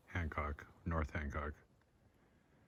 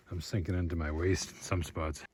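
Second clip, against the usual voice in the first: trudging through snow; 5 dB quieter than usual. Real, not acted. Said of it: "have I mentioned it's hard work?".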